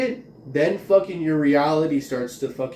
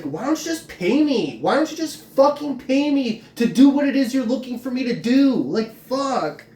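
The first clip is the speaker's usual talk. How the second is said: high, louder exasperated outburst; exasperated rant; 8 semitones higher, 3 dB louder than usual. Real, not acted. Vlogger rants at hecklers, high and exasperated. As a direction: vent it in frustration.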